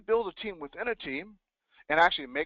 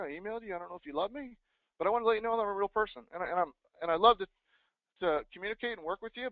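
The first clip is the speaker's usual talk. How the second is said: lovey; 3 semitones higher, faster than usual. Shown as a demonstration. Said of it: "Just make it lovey".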